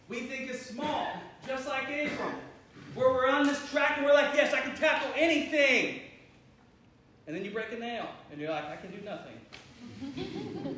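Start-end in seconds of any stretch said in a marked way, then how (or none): 2.9-6.0 mock confident boast, louder. Acted confident self. 8.7-10.8 slow, soft, whiny mock despair. Acted self-pity after broken nail.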